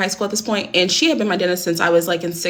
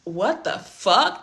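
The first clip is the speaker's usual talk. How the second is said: very slow, soft disbelief; stunned; 4 dB quieter, much slower than usual. Retold or imitated. Just slapped in the car, slow stunned disbelief. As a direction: let it fall out in shock.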